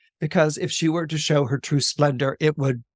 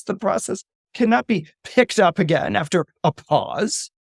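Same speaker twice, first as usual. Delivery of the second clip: stern rebuke; 6 semitones higher than usual. Acted. Goddess angrily rebukes queen.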